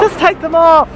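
calling out. Real, not acted. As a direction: call it out to her again. Calling out to the child.

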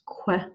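"que" said as "kweh"; wrong "que", with the U sounded like a W; mispronounced Q U. Shown as a demonstration. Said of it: "Q U in Spanish is not pronounced".

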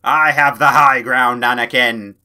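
loud, declaimed film line; mock-dramatic shout. Player lords it over an enemy, dramatic shout. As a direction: proclaim it loudly, every word big.

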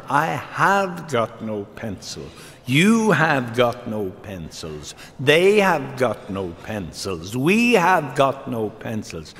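slow, deliberate schoolteacher reciting a conjugation; teacher drilling grammar. Retold or imitated. Schoolteacher correcting Johnny's grammar, slow and deliberate. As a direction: spell it out word by word like a classroom drill.

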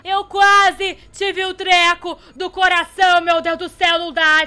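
loud, slow and stretched out; loud drawn-out exclamation. Real, not acted. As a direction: drag out every word in shock. After a near death scare.

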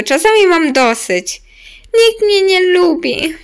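fed-up whining. Pretend. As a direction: complain loudly that you've had enough. Acts fed up and unloved in game. (głośno, z pretensją i żalem)

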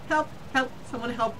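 loud quick yelps; hammed-up panicked shouts; mock cries for help. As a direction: cry out for help.

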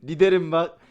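nerves frayed, annoyed. Real, not acted. Gamer ranting that he should have shot Mahmut, worked-up annoyance. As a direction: complain loudly in a high, worked-up voice. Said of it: "çok sinirlerim bozuldu".

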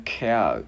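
"cow" with a puff of air on the K; aspirated K. Shown as a demonstration. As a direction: release the K of "cow" with breath. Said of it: "Chữ K bật hơi ra".

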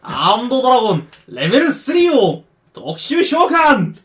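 card duel hero. Acted. Dramatic summon chant.

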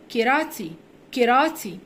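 كيراتي said as "ke-ra-ti"; English pronunciation. Shown as a demonstration. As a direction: repeat كيراتي in English with a "tee" ending. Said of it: "وكاراتيه بننطقها كيراتي".

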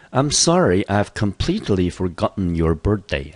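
sorry said high and loud, apologetic; apologetic example. Shown as a demonstration. 老师演示道歉例句，语气抱歉. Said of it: "真的是很抱歉".

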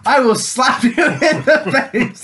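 half-laughing playground threat; a touch of mock anger. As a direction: threaten a slap while laughing. Threatening the crying engine James.

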